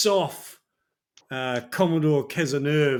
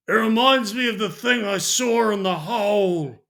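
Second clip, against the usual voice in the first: put-on slurring drunk, a bit louder; lightly voiced drunkard rambling; drunk old sailor; 2 semitones higher, 4 dB louder than usual. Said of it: "he's quite drunk, and he looks at you and he goes".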